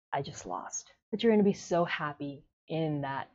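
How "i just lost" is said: much lower and much softer, a dazed murmur; stunned defeat. Retold or imitated. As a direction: let it drop out of you, defeated. Resigned realization of defeat quoted.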